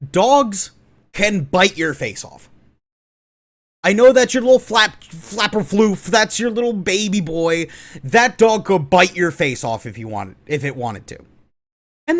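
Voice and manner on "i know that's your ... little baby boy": mock baby talk. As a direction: coo it like talking to a pampered pet. Mocking doting dog owners.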